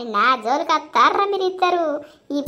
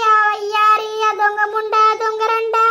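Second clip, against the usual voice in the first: higher, tearful rant building; weeping, climbing in pitch while cursing the rival; crying; 4 semitones higher than usual. Acted. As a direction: sob out the accusations, rising. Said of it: "ఏడవకే నువ్వు ముందు".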